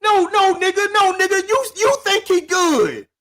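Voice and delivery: high-pitched, emphatic objection; heated rebuttal. Real, not acted. Friend contradicting him about his father, heated rebuttal.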